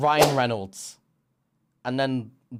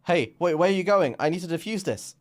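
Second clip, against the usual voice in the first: alarmed protest; 6 semitones higher than usual. Retold or imitated. Alarmed protest to departing partner.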